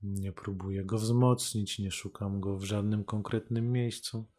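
normal talking voice

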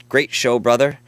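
reading a fan message. Retold or imitated. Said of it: "he says".

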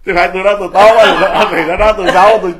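fast, loud and high; heated rant. Real, not acted. Monk rattling off a heated rant about being called bad. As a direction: rattle it off, fired up.

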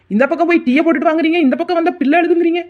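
harried daughter-in-law arguing back; exasperated complaint. Acted. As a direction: throw the contradictory orders back at her. Quarrel with mother-in-law over chores.

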